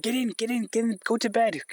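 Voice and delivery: the dog herding the ducks, mock commands. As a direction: speak as the bossy sheepdog. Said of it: "he was saying, like".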